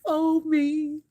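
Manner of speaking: high, pleading little voice of the laundry; clothes pile whining at her to be folded; begging clothes. Pretend. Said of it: "These clothes just sitting over here like".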